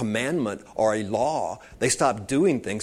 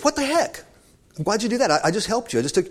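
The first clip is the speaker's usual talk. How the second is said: high-pitched squeal of betrayed disbelief; outraged frog; 9 semitones higher, faster than usual. Acted. Preacher voicing the frog stung mid-lake, high indignant squeal. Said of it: "And frog says".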